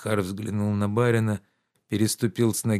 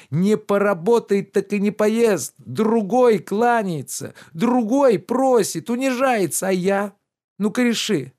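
higher, louder reproachful gentleman; lordly rebuke, pitched up and loud; indignant master Oblomov; 10 semitones higher, 4 dB louder than usual. Acted. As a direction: scold the servant with wounded pride.

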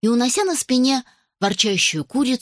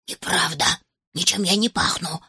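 whispering; 3 semitones lower than usual. Acted. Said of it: "зашептал Гектор".

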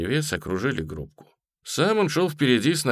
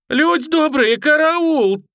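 put-on high piercing boy's shout for help; пронзительный крик; 7 dB louder, slower than usual. A narrator's reading. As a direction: scream it out shrill and high, calling the crowd. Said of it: "Мальчишка пронзительно вскричал". (пронзительно кричит «караул»)

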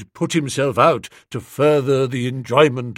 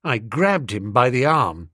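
ordinary delivery, nothing marked

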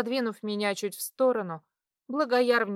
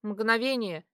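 ordinary delivery

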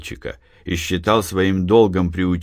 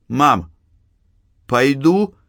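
put-on pleading child; 6 semitones higher, slower than usual. A narrator's reading. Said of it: "обратился Артёмка к матери".

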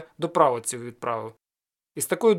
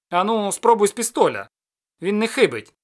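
loud, raised challenge; shouting; 4 semitones higher, 6 dB louder than usual. Acted. The sorcerer daring Ostap from afar, loud shout. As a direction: call the dare across the glade. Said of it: "крикнув характерник".

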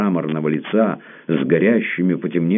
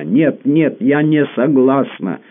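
slow, much higher, louder shout; cry out; 11 semitones higher, 5 dB louder, slower than usual. A narrator's reading. Tamara refusing the prince's friendship, a slow high cry. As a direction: fling the words at him, drawn out.

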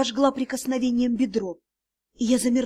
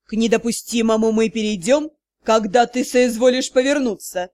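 low, louder threatening male voice; menacing; 4 semitones lower, 3 dB louder than usual. A narrator's reading. Magistr threatening the heroine, low and menacing. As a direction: promise it darkly.

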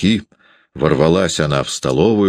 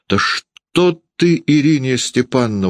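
coaxing; 8 semitones higher than usual. A narrator's reading. Varvara pacifying the furious landlady, high coaxing. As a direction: try to talk her down, pitched high. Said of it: "уговаривала Варвара".

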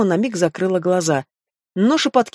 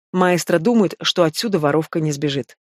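plain reading voice

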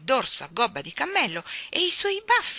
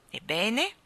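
indulgent king with a smile, rising question; 3 semitones higher than usual. A narrator's reading. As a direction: prompt gently, with patient condescension. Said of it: "con un sorriso indulgente". (con un sorriso indulgente)

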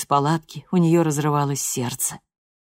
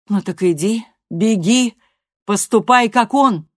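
rising, louder, bitter dismissal; mother's angry retort; 6 semitones higher, 7 dB louder than usual. A narrator's reading. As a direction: push her daughter away in anger. Mother snaps back in anger.

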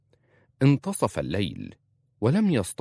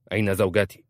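a sharp, louder demand for his wife; 3 dB louder, faster than usual. A narrator's reading. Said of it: "قال عبد الرحمن في حدة". (بحدة: أين زوجتي؟)

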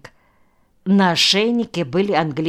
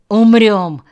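higher, louder one-word comeback; snapped retort; 4 semitones higher, 8 dB louder than usual. A narrator's reading. Koshcheev answers the worried question, snapping back. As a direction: snap it back, curt and irritable. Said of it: "огрызнулся Кощеев".

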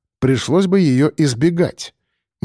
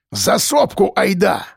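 put-on higher, slow, drawn-out call of an old local; urging call; 6 semitones higher, slower than usual. A narrator's reading. Efim urging the group over the hill, drawn-out call. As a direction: wave them on over the hill.

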